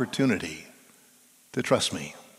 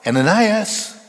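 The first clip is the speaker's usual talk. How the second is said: higher, louder call of the name; 8 semitones higher, 6 dB louder than usual. Acted. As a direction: call out across a distance. God calling out his name.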